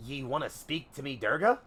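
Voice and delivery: piratical captain asking in disbelief; ship's captain. Acted. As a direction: question the passenger as an old sea captain. Captain answers a passenger's request.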